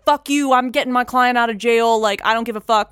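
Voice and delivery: high, loud, brash mock lawyer; ball-buster lawyer. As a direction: imitate a lawyer who takes no nonsense. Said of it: "just a total ball buster".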